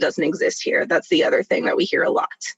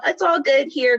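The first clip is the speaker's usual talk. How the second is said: higher, playful mock-sassy quote; sassy, fun; 8 semitones higher than usual. Panelist imitating white folks trying to be fun, mock sassy. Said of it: "trying to be sassy or".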